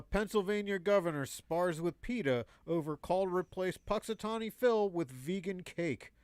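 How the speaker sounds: even mock newscast delivery; joke news read. Reading a governor headline to the co-host, straight mock news read.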